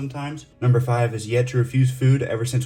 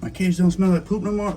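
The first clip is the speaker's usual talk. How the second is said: higher, louder voice for the snake; snake's voice; 8 semitones higher, 5 dB louder than usual. Retold or imitated. Keeper voices his snake thanking Dad for a clean cage. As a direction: voice the snake's happy complaint. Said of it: "He's like".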